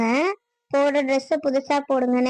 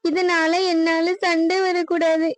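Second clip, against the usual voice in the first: crying, begging him to stay out of it; tearful pleading. Acted. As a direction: plead through tears. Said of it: "நீ அழுவாதம்மா".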